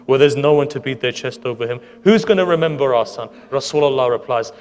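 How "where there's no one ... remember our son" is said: building lament. Retold or imitated. Zahra asking her father who will mourn her son, building to a loud plea. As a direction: cry out each question harder than the last.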